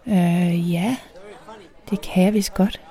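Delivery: hesitant, caught-off-guard reply; taken aback. A narrator's reading. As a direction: stall on the filler, then agree uncertainly. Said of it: "i et tonefald, der afslører, at jeg er så overrumplet". (overrumplet og tøvende)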